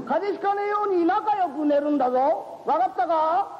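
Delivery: put-on high, chatty old landlord voice; kindly old uncle. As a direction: fuss over the young couple like a doting uncle. Uncle shows couple upstairs.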